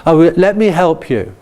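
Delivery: lightly voiced kindly parent offering help. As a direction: offer help sweetly to a small child. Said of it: "in a kindly way".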